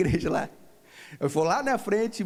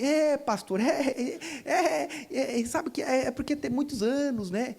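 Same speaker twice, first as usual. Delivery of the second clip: imitated sheepish hesitation; 4 semitones higher than usual. Voices woman hesitating to admit unforgiveness.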